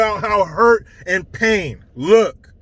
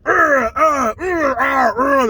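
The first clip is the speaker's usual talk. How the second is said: football grunts; 4 semitones higher, slower than usual. Retold or imitated. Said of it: "the sounds when they hit each other".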